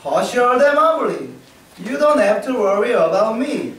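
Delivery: lightly voiced rascal son; cheeky son. A narrator's reading. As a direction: brush off mother lightly. Little Frog answers cheekily.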